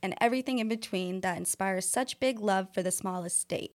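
smooth radio host read. Shown as a demonstration. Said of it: "I love your radio voice".

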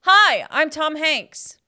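slow, lightly voiced Tom Hanks; barely changed Tom Hanks voice; deliberately lame Tom Hanks; Tom Hanks impression. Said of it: "This is my Tom Hanks impression".

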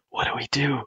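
a half-hearted whisper, keep it small; mock whisper. Player as Otto into the walkie-talkie, mock whisper. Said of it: "Otto whispers into the walkie-talkie".

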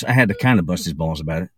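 ordinary talk

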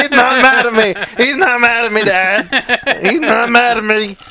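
high, gushing delight; excited. Real, not acted. Delighted at dog coming back to him.

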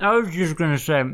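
talking through a mouthful of nuts; mouth full. Real, not acted. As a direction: speak around a mouthful. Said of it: "my mouth is full of nuts".

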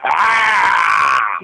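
shouted zombie groan; zombie noise. Pretend. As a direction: bellow it like a hungry zombie.

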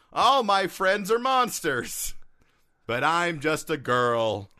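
slow, high plaintive prayer; prayerful teen girl. Pretend. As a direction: pray it out like a lonely girl. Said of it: "Dear God, it's me, Margaret".

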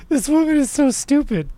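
high, laughing delivery; laughing scorn. Real, not acted. Host mocking the politician's clip, laughing. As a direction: laugh helplessly through the words.

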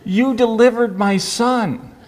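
doctor retelling a patient's joke, laughing. Retold or imitated. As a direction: deliver it slowly and laugh into the punchline. Patient's punchline retold, laughing.

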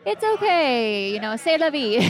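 imitated kindly restaurant staff; sweet reassurance. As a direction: gently wave off a baby's mess. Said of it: "they were so sweet to our baby".

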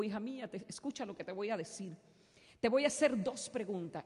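hushed divine voice to his daughter; voice of God. Retold or imitated. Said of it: "el Señor me dijo". (voz de Dios, suave y baja)

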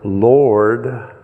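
usual speaking voice

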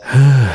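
a heavy, loud sigh. Acted. Lonely Mode sighing to himself, a loud sigh. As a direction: let out a big sigh.

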